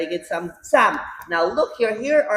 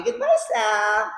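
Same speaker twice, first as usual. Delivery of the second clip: cheery goodbye; 3 semitones higher, 3 dB quieter than usual. Real, not acted. Cheery farewell to child.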